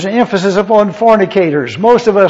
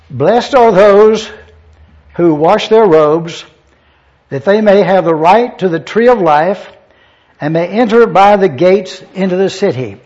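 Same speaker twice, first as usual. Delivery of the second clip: scripture reading. Acted. Reads scripture verse aloud.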